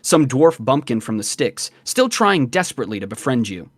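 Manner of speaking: measured game master narration; scene-setting narration. A narrator's reading. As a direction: read it as a story told to the player.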